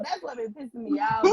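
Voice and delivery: ordinary delivery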